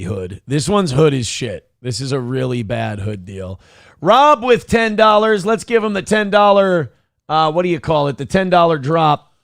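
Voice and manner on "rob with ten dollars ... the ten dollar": hyped shout. Real, not acted. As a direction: build hype like an announcer. Hype reading of donations.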